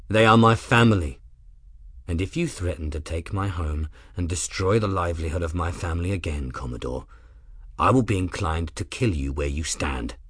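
deadly calm, each word measured; calm, level threat. Acted. Grim warning Rook he will kill him, calm and low. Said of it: "calm, level tone".

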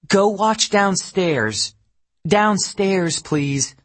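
put-on high, loud, slow call to the kids; firm mother calling out; shouting at kids. A narrator's reading.

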